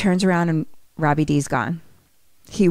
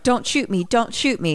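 slightly raised, quick frightened plea; mock pleading; 4 semitones higher than usual. Doctor Fowler begs with hands up, mock pleading. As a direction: plead lightly in a higher voice.

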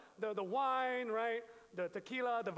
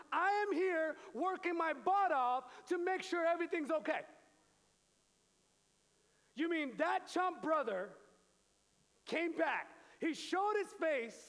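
higher, louder indignant rant; aggrieved older son; 5 semitones higher, 3 dB louder than usual. Acted. Older son complaining about his chump brother, higher and louder. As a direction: vent like the overlooked good son.

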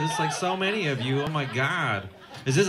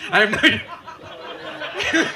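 spooky slow; 9 semitones higher, much slower than usual. Acted.

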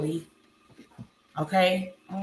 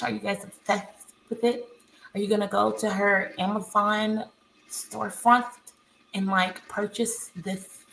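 talking like Alex. Retold or imitated. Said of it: "talking like Alex".

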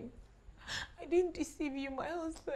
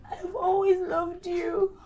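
crying. Acted. Mother crying to son.

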